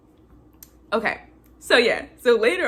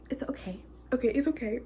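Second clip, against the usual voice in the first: soft, slightly raised soothing voice; comforting; 3 semitones higher, 9 dB quieter, faster than usual. Retold or imitated. Katniss comforting injured Peeta, softly reassuring. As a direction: imitate a gentle hushed reassurance. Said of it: "trying to comfort him".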